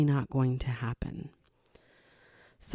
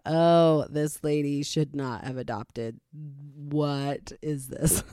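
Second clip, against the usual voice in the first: exasperated inner voice; 4 semitones lower, slower than usual. Retold or imitated. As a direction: mutter it to yourself in disbelief. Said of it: "there were times when I thought".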